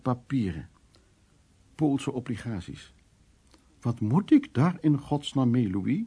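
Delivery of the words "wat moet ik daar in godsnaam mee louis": disgusted aunt. Retold or imitated. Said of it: "zegt tante Kokko vol afschuw".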